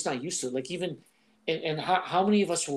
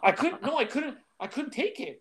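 high-pitched laugh breaking through the words; 10 semitones higher than usual. Real, not acted. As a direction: laugh it out, can barely speak. Laughing while retelling.

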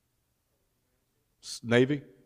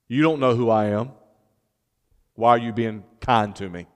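lower, softened retold question; subdued question; 5 semitones lower, 5 dB quieter than usual. Preacher voices Ruth asking Boaz about his kindness, subdued. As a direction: voice a humble question quietly.

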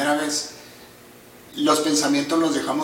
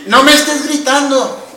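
much higher and louder, laughing, slow; laughing mock yell; 10 semitones higher, 11 dB louder than usual. Mocking the scolding parent, laughing yell. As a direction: yell back the scolding while cracking up. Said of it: "la expresión que acabas de hacer".

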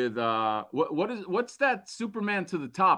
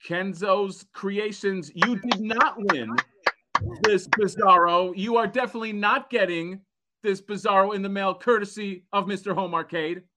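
mock prize announcer; 3 semitones higher than usual.

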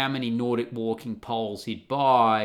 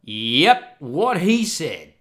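smug agreement; 6 dB louder, much slower than usual. Retold or imitated. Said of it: "looked back at him and went".

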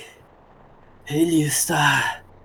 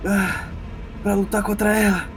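higher, anguished pleading over fate; tearful despair; 6 semitones higher than usual. Acted. Shao telling Ellie he cannot fight fate, higher and anguished. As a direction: plead as if close to tears.

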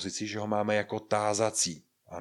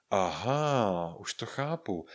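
drawn-out aha, then softer; dawning realisation; 3 dB quieter, slower than usual. Acted. Learner finally understands the literal meaning, dawning realisation. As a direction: let the penny drop.

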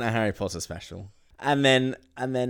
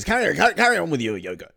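higher and louder, chirpy brush-off; breezy dismissal; 9 semitones higher, 8 dB louder, much faster than usual. Retold or imitated. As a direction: wave them on cheerfully. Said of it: "and he goes".

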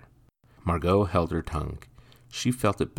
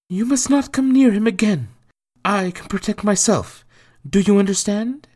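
firm mother voice; 11 dB louder than usual. Acted. Margot pleads with son.

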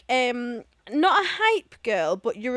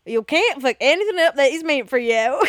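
put-on lightly done American accent, a bit louder; mock American accent; 5 dB louder than usual. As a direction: play a loud Texan for fun. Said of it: "I was going for".

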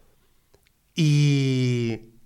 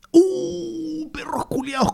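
high, sharp irritated cry; annoyed outburst; 12 semitones higher, 4 dB quieter, slower than usual. Real, not acted. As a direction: burst out at the dogs. Cursing barking dogs.

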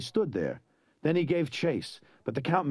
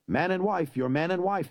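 pompous archdeacon; 6 semitones higher than usual. Acted. Archdeacon's ceremonial pronouncement.

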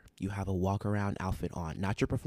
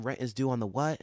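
crowd call-out; 3 semitones higher, 6 dB louder than usual. Retold or imitated. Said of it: "I always tell them".

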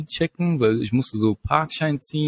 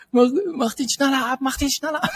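rapid-fire police orders; 10 semitones higher than usual. Retold or imitated. Officer barking orders in the car.

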